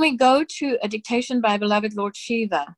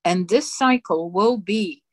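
solemn dictation. Acted. Reading God's dictation aloud to the congregation, solemn and measured. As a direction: intone each phrase with grave authority.

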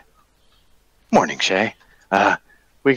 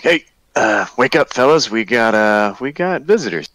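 rousing companions; 3 semitones higher than usual. Acted. Character wakes sleeping companions.

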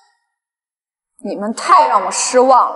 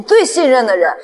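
anguished outcry; 7 semitones higher, 3 dB louder, faster than usual. Acted. Betrayed heroine cries out.

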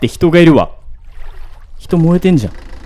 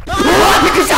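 high startled cry; hit hard crying out; 4 dB louder, much faster than usual. Real, not acted. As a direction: shriek in real shock.

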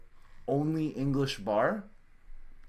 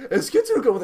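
high, loud, hammed-up feminine French; exaggerated French girl voice; huge-mouthed French girl; 8 semitones higher, 5 dB louder than usual. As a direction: mimic a movie-style Frenchwoman, mouth wide open. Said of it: "with a huge mouth".

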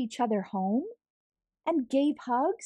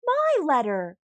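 luid roepend, de brief terugeisend; uitroep; 5 semitones higher, 5 dB louder than usual. Acted. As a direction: roep het alsof je hem terugpakt. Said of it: "cried Squirrel".

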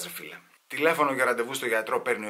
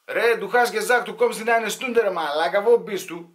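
put-on higher, nagging German with a heavy Greek accent; 7 semitones higher, 4 dB louder than usual. Greek emigrant scolds a late friend, Greek-accented German. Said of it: "η ελληνική προφορά παραμένει ελληνικότατη".

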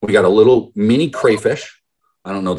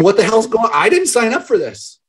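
mock hysterics; 12 semitones higher than usual. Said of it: "almost in hysterics".

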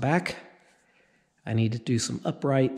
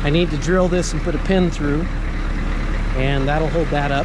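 shouting over machinery; 3 semitones higher than usual. Real, not acted. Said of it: "we're gonna shout over the engine".

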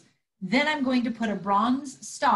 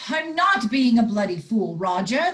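angry; 3 semitones lower, 5 dB louder than usual. Acted. Angry row with Roger.

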